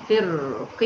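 فرق drawn out with i on qaf and a long nasal hum; kasra on qaf. Shown as a demonstration. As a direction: recite فرق slowly, firqin with held nasal. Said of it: "القاف هنا مكسورة".

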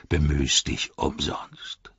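low, slow orc voice; low, dragged-out scorn; Ugluk. Acted. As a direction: brush the rival off slowly. Ugluk scorns his rival.

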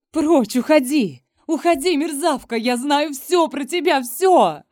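furious cry at her rival to get out; breaking into a shout. A narrator's reading. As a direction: yell it out, losing control. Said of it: "Невольно срываюсь на крик".

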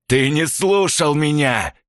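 villain snaps at the detective; irritated shout. A narrator's reading. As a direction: spit out each word in annoyance. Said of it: "с раздражением крикнул Евгений".

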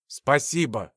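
a weak, low, rasped thank-you; hoarse wheeze. Acted. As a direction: barely get the word out. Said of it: "прохрипел он".

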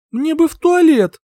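high, loud demand; loud urgent call. Acted. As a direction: shout it out urgently. Calling to the duke urgently.

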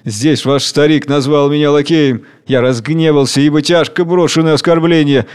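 grim, heavy confession; bitter strength, declaimed with weight; sullen, forceful. Acted. King admits to workers he is a lackey, sullen. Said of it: "говорит угрюмо и сильно".

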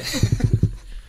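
risita aguda y susurrada; ríe fino y sin voz; squeaky laugh. Pretend. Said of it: "Y así habla un pito". (risita chillona de pito)

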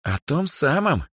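put-on playful ironic girl's voice. A narrator's reading. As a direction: tease her with a knowing irony. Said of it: "иронично ответила Эльза".

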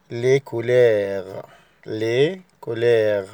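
slow French "لي كولير" with a uvular r, les couleurs; نطق فرنسي بطيء لـ "لي كولير"; French pronunciation. Shown as a demonstration. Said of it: "عنوان الدرس اسمه".

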